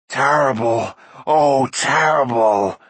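loud, drawn-out creature moan. A narrator's reading. Frightened creature in the dark, moaning. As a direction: wail it miserably in an odd creature voice. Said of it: "moaned Gurgi".

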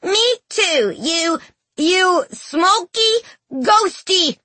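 put-on high, halting boyish challenge; frightened bravado. A narrator's reading. Scared boy backing his brother against the ghost, bravado. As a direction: stretch out the insult, trying to sound brave. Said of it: "Beowulf added".

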